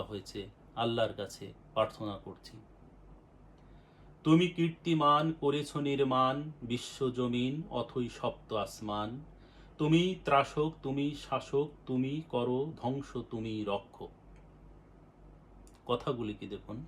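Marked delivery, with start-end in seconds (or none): 4.2-14.1 devotional verse, each line lifted and then let fall; fervent recitation of a devotional poem. Acted.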